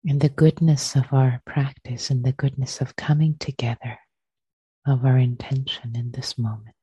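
unhurried guiding voice with long pauses between phrases; guided meditation. Real, not acted. Teacher settles friends into shared practice, guided meditation. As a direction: ease listeners into stillness, phrase by phrase.

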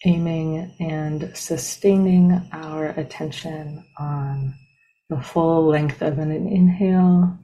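unhurried, evenly paced meditation guide, long silences between phrases; guided meditation. Real, not acted. Teacher leading a group into breath meditation, calm and spacious. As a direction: ease listeners into stillness, one measured phrase at a time.

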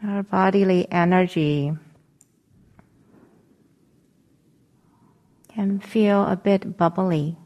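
calm meditation guidance with long pauses; guided meditation. Acted. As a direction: gently guide them into settling, leaving long silences between phrases.

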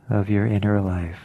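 unhurried meditation guidance with long pauses; guided meditation. Acted. Teacher settling listeners into an alert meditation posture, guided meditation. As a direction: ease them gently into stillness, phrase by phrase.

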